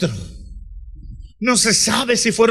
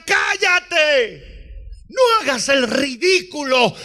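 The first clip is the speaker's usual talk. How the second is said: hushing; 3 semitones higher than usual. Acted. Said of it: "le decían".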